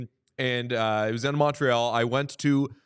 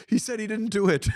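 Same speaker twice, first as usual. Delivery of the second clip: quoting through laughter, higher; can barely get the line out for laughing; laughing quote; 10 semitones higher than usual. Retold or imitated. Retelling colleague's chuckling reply.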